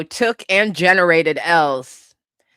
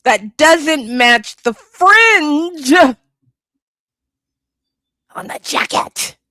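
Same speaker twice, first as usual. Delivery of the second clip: incredulous rise; 8 semitones higher, slower than usual. Real, not acted. Mocking outfit, voice rising.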